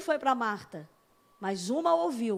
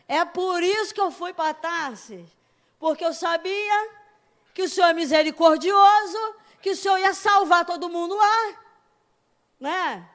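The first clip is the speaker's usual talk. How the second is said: louder indignant outburst; Jonah shouting back; 3 semitones higher, 5 dB louder than usual. Retold or imitated. Jonah shouting at God about his mercy. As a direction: shout it like an angry prophet. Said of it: "Como é que você fala isso pra Deus".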